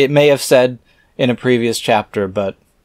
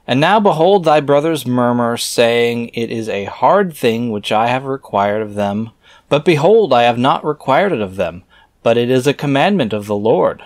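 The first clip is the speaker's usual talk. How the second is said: scripture reading; 2 semitones higher, 3 dB louder than usual. Acted. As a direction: intone the archaic words like a preacher. Reads scripture aloud.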